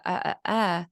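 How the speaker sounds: flat "Uh, uh, uh" in place of words; child's vowel-only babble. Retold or imitated. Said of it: "you're saying".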